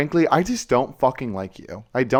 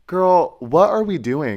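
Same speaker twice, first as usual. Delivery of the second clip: sassy retort; 7 semitones higher, 5 dB louder, slower than usual. Retold or imitated. Retort to angry Grindr guys.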